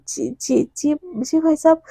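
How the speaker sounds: stunned stammer. Acted. Stunned mother stammering agreement.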